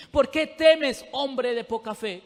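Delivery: a sudden loud why on the first words; Jesus pressing the man harder. Acted. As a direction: call out the question to the man. Same question, louder take.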